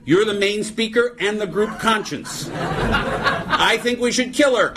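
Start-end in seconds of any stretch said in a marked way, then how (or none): 2.5-4.7 slow mock-serious proposal; mock deadpan motion. Comic as lone meeting member, slow mock-earnest motion. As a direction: propose it slowly, laughing.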